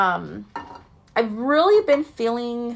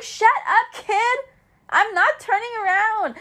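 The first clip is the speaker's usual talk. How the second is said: annoyed inner thought; 11 semitones higher than usual. Retold or imitated. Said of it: "I was like".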